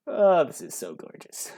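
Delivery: high, loud, drawn-out gush; gushing delight. Real, not acted. Player admiring the deck just built, gushing with delight. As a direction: swoon over it, slow and high.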